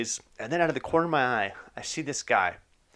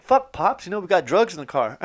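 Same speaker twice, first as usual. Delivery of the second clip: panicked; 6 semitones higher than usual. Retold or imitated. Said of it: "I'm just like".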